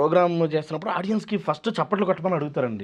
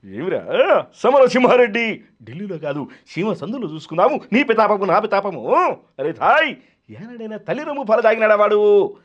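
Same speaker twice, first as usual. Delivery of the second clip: booming villain dialogue, louder; Jaya Prakash Reddy impression; 6 semitones higher, 6 dB louder than usual. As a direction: growl the film threat like the screen villain. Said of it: "Jayaprakash Reddy గారు".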